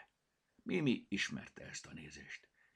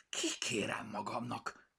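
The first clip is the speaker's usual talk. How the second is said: huffed; 2 semitones higher than usual. Acted. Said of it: "fújt Picasso".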